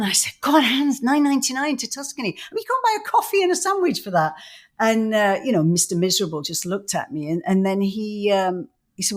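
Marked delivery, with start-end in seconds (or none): 0.4-4.3 excited. Retold or imitated. Retold excited quote to husband.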